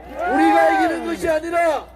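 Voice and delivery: shouted, rising political oratory; roaring rally speech. Acted. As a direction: rouse the crowd at full voice.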